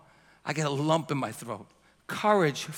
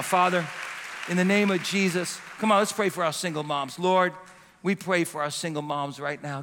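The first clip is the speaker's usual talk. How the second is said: congregational prayer. Real, not acted. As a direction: pray over the mothers. Prayer for single moms.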